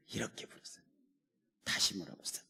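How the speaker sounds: whisper. Acted. God calls the man quietly.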